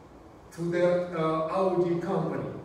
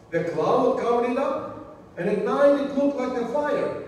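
measured, emphatic scripture reading. Acted. Preacher reading the cloud passage to the congregation, emphatic scripture reading. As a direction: read it out phrase by phrase to the congregation.

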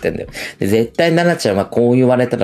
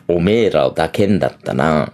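lower, crude male brag; lowered lewd guy; low macho voice; 6 semitones lower than usual. Retold or imitated. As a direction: say it as a sleazy man. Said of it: "私がみんなを抱けんだったら".

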